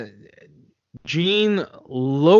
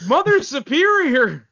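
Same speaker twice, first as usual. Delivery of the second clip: shocked exclamation; 10 semitones higher than usual. Pretend. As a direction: gasp out the title in horror.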